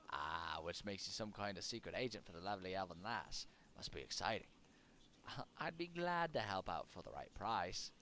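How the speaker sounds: lightly hammed British-Irish-Australian rogue accent; silly mixed accent. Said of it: "I'm not gonna do that s-, that silly accent anymore".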